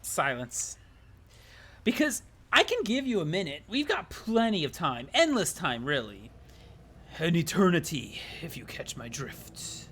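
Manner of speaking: hint at an eternity, sly and menacing; lightly voiced ominous narrator. Narrator teases the player.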